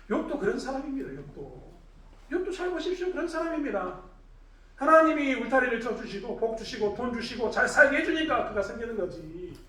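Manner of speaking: usual speaking voice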